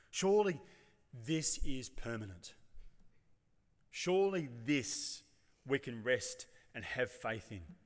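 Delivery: slow, savouring mock pride in the stones; slow, lightly hammed-up boast about permanence; proud admiration. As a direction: linger on each word as if showing off a treasure. Disciples boasting to Jesus.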